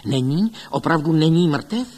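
hungry to hear it confirmed; eager question. A narrator's reading. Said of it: "tázal se dychtivě". (dychtivě se ptá)

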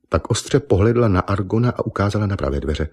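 plain reading voice

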